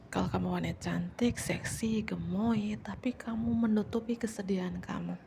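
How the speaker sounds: hushed reader's whisper. Acted. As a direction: confide it like a secret. Tarot reading, intimate message.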